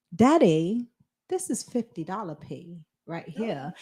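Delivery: put-on small girl's voice with an English accent. Imitating a little girl who spoke with an English accent while potty training; child's English accent. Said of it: "That is how she spoke".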